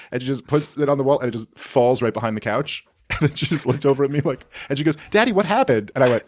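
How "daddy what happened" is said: imitating his puzzled daughter. Daughter's puzzled question voiced.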